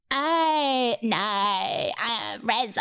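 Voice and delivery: fake-cry the name like a reality star; mock crying contestant. Mimicking the show's crying girls, mock whimper. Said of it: "all like".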